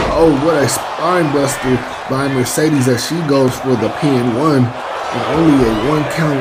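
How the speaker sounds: lively ringside play-by-play; wrestling commentator. Acted. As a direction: call the match like a TV announcer. Live play-by-play of wrestling match.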